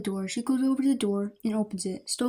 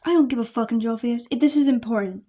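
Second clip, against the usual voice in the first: scoffing; 5 dB louder than usual. Acted. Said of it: "Stella scoffs".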